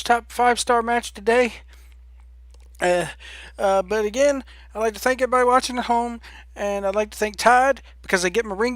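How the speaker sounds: a champion thanking sponsors after the match; mock wrestler promo. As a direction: rattle off the sponsors like a proud champ. Continues the wrestler promo parody.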